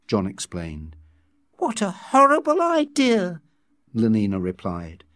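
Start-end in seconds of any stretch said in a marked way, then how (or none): 1.6-3.4 high-pitched, appalled exclamation; scandalised outburst; very shocked. A narrator's reading. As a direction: recoil in shock, voice shooting up. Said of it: "She was very shocked".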